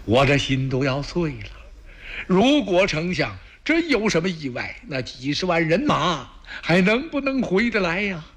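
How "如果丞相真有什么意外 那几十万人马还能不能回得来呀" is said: anxious. Acted. Emperor fretting about the chancellor.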